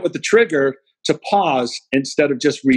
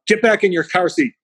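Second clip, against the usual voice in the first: stern order; 5 semitones higher than usual. Retold or imitated. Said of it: "I'm pretty furious".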